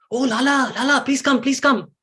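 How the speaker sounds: Yashoda calling Lala. Acted. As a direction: call the child back like a doting mother. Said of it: "she calls out".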